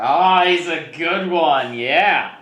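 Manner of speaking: high, slow, gleeful creature voice; bright, playful beast girl; lion cub voice. Acted. GM voices the NPC.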